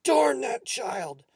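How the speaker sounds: loud, high, drawn-out curse; angry cursing. A narrator's reading. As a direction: curse with every word stretched. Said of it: "Mister Smith cursed".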